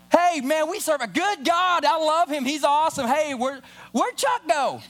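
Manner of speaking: breezy small talk that drifts away from following; distracted churchgoer. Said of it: "Here's most Christians walk".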